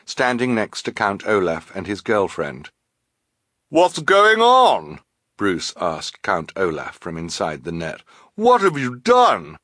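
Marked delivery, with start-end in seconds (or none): 3.7-9.6 alarmed shout. Acted. Bruce to Count Olaf from inside the net, alarmed shout. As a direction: cry out in drawn-out alarm. Captured man cries out in alarm.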